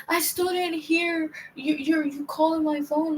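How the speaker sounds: a hint of put-on slow, high excuse; imitating sister's excuse. Sister explaining missed calls to her, mildly mocking imitation.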